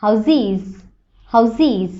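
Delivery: হাউজিস with a voiced z before the ending; z sound in houses. Shown as a demonstration. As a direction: say হাউজিস with a clear z. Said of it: "কিন্তু সাউন্ডটা হবে".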